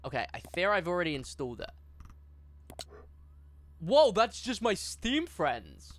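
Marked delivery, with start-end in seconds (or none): 3.8-5.9 scared horror game streamer. Real, not acted. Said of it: "That jump scared me for a second".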